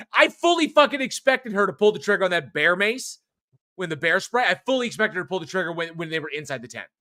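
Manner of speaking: worked-up, exasperated complaint; exasperated rant. Real, not acted. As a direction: rant in disbelief at a dumb choice. Ranting about characters' dumb decisions.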